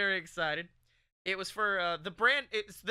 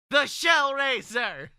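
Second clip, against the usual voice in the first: loud, slow, booming exclamation; dramatic announcement; 7 semitones higher, 9 dB louder, slower than usual. Acted. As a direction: boom the name like a trailer. Dramatic exclaim of the vehicle name.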